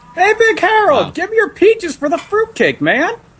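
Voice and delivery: shrill, very high-pitched whining voice. Calling out to Big Harold in a whining high voice. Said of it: "A whining high voice".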